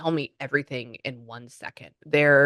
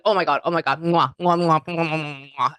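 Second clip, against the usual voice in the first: toned-down gushing; 3 dB louder than usual. Retold or imitated. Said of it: "I'm even toning down the energy".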